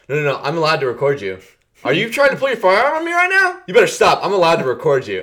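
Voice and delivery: high, loud, fast mock outrage; taunting filmer. Filmer taunting a police officer, squeaky mock outrage. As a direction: needle the cop in a squeaky voice.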